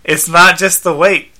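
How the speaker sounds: high, loud, earnest robot helper; insistent robot companion; Skeets. Acted. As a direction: report the diagnosis as a dutiful robot. Robot lists the owner's health problems.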